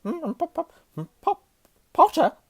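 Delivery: very high, nervous stutter; stammering Quirrell. A narrator's reading. Nervous professor greets Harry, stammering badly. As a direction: get stuck, then burst out with the name. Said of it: "stammered Professor Quirrell".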